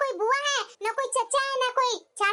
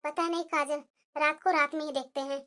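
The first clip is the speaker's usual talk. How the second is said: hushed talk; 8 semitones lower, 5 dB quieter than usual. Acted. Sisters-in-law speak secretly.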